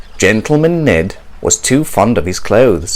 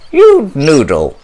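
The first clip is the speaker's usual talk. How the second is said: mock scolding squawk, a bit louder; squawking parrot; 4 semitones higher, 4 dB louder than usual. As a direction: scold him like a cheeky parrot. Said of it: "squawked Polly".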